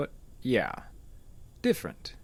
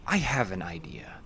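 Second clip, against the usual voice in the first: whisper. Acted. Doctor whispering to Jeff a sly idea. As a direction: whisper it like a secret.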